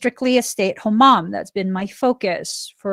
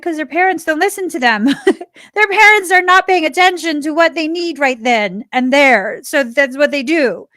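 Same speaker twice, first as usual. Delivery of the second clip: laughing explanation; 6 semitones higher, 4 dB louder than usual. Retold or imitated.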